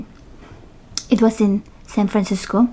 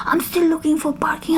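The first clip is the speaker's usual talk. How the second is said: husband on phone; 7 semitones higher, 4 dB quieter than usual. Retold or imitated. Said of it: "And he's like".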